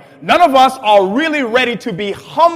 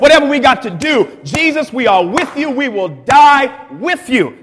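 hyped-up disciples; 3 semitones higher, 4 dB louder than usual. Retold or imitated. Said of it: "everybody joins with him and says".

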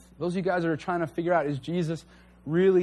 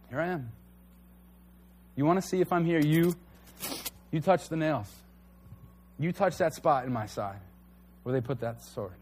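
gentle invitation. Pretend. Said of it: "He just goes".

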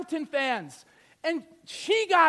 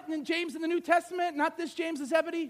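ordinary delivery

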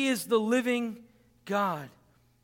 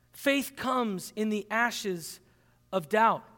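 even slower, pausing before of doubt; slower repeat; 2 semitones lower, slower than usual. Shown as a demonstration. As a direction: repeat it slowly with a pause.

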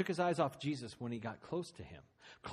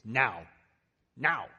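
urgent call; 2 semitones lower, 10 dB louder than usual. Acted.

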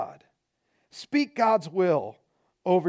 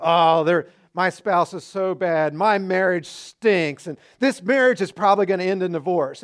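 whining; 5 dB louder than usual. Retold or imitated. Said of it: "many of you whine and complain".

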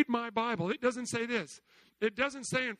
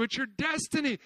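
ordinary talk

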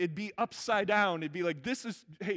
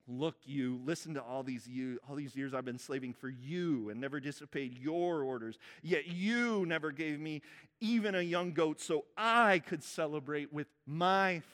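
accusing whine; 4 semitones lower than usual. Retold or imitated. Older son complaining to his father, resentful. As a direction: grumble it out, finger pointed at dad. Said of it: "That's the finger pointed in the face".

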